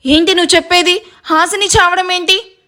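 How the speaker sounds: stunned sister-in-law asking what happened; shocked. Acted. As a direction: voice rising in disbelief. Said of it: "షాకింగ్గా చూస్తూ".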